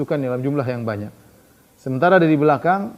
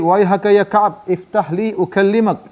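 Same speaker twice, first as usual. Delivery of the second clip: insistent plea; 5 semitones higher, 4 dB louder, slower than usual. Retold or imitated. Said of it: "Kata Huyai".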